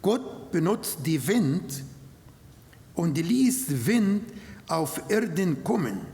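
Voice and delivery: normal talking voice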